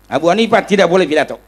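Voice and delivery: loud, firm mock decree; mildly hammed-up stern order; imitated official ban. Imitates official forbidding his speech.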